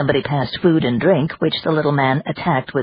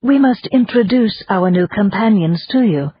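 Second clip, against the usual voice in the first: gracious; 6 semitones higher than usual. Acted. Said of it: "Madame said graciously".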